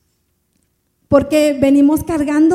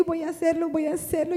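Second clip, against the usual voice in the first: quiet surrender; 2 semitones higher, 9 dB quieter than usual. Retold or imitated.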